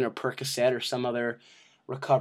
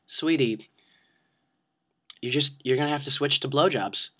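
gentle mom; 4 dB quieter than usual. Retold or imitated. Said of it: "And she says, after a moment".

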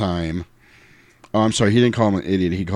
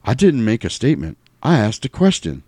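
the preacher; 5 semitones higher than usual. Retold or imitated. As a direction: lay it on like a preacher. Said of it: "The preacher again".

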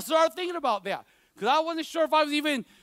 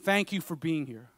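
put-on soft, hushed reading of a girl's note; reading the letter softly; 7 semitones lower, 8 dB quieter than usual. Pastor reads his student's thank-you letter, hushed and soft. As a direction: read it gently, as if touched. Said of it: "She said".

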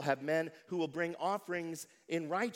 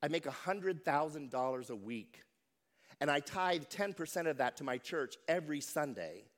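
serene reply. Retold or imitated. Calm castaway reassuring his panicked friend, serene. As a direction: answer with easy serenity. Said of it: "said with great serenity".

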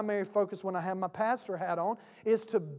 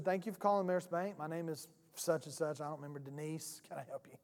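soft, low, pleasant phone greeting; real nice lady; 5 semitones lower, 10 dB quieter than usual. Retold or imitated. Bank agent answering a customer's call, softly nice. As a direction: greet the caller nicely, lower and trailing softer. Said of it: "real nice lady".

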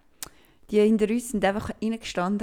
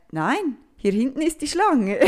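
firm correction; 3 semitones higher, slower than usual. Retold or imitated. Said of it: "nachher habe ich gesagt".

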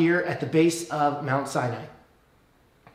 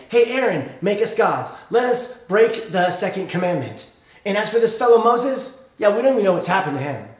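casual paraphrase. Retold or imitated. Restless Israelites badgering Aaron, casual and pushy. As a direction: toss it off like a restless crowd. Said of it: "That's what they say".

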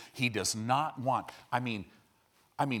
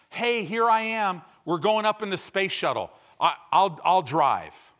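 mock eager boast; 5 semitones higher, 7 dB louder than usual. Clueless pastor boasting, space shuttle.

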